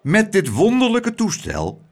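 high, proclaimed public speech; addressing the crowd. A narrator's reading. Mayor addressing the festival crowd through a microphone, proclaiming. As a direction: orate to a whole crowd. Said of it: "sprak de menigte toe door".

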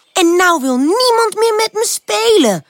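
high, plaintive whine; pitiful. A narrator's reading. Pip telling aunt Perenboom her woes, pitiful. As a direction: end the complaint pitifully. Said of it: "eindigt ze haar verhaal zielig".

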